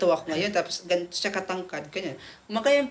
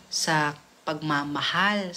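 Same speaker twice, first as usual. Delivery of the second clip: slow, tender; 6 semitones lower, much slower than usual. Retold or imitated. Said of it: "Sabi niya".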